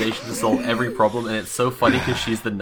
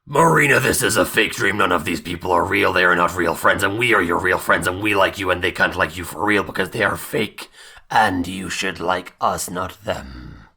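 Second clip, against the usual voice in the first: lightly voiced earnest pep talk, lower; a hint of a stern friend laying it down; Kat's intimidation speech; 4 semitones lower than usual. Kat intimidating Marina out of the dream, mild and earnest. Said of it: "and then goes".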